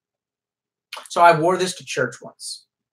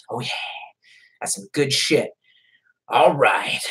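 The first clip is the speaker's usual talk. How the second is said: whisper; 3 semitones lower than usual. Real, not acted. Mutters to himself.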